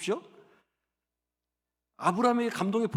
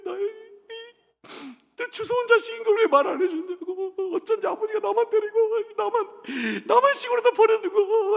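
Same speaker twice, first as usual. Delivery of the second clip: high, laughing-crying protest; child's tearful complaint; 13 semitones higher, 3 dB louder than usual. Retold or imitated. Boy confronts mom at playground, high and tearful. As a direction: whine it out like a wronged kid. Child accuses mother, sobbing.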